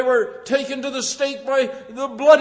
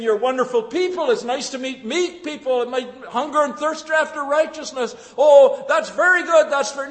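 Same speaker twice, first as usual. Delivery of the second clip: mock praise; 5 semitones higher than usual. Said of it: "They might not be saying".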